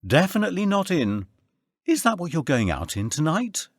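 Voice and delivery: Tracy mocking Andy's outfit, high voice; Tracy's voice. A narrator's reading. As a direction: tease him in a lifted female voice.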